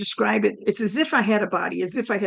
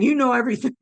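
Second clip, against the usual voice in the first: slightly lifted, quicker echo; dawning realisation; 3 semitones higher, much faster than usual. Retold or imitated. Woman echoing God, mildly amazed. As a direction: echo it back in mild wonder. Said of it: "As I'm saying".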